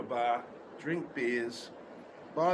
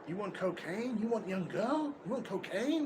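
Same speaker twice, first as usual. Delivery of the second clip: lightly voiced pushy dealer, rising higher; imitating street dealer; 4 semitones higher than usual. Dealer pestering a tourist on the street, mock pitch. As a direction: hawk it like a street pusher, a hint only. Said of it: "a guy try to sell me cocaine".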